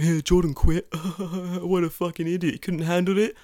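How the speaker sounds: high, laughing imitation of coworkers; mock jeering. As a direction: jeer like gossiping ex-colleagues. Acting out jeering former coworkers.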